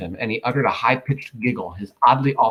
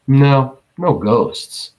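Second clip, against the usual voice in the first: no ghosts with ghosts leaned on gently; faint stress on ghosts; 3 semitones higher, 4 dB louder, much slower than usual. A narrator's reading. Vampire to Dud, hinting at worse, faint stress on ghosts. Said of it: "He placed a faint emphasis on that last word".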